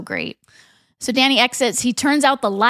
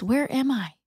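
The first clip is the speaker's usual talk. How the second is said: sleepy; 2 semitones higher, 6 dB quieter than usual. Acted. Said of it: "Steph sleepily asks".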